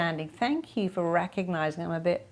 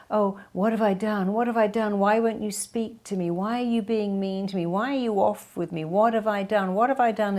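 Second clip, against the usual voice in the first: mock needy panic; imitating an anxious people pleaser at work; anxious pleading; 2 semitones higher than usual. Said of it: "they'll go".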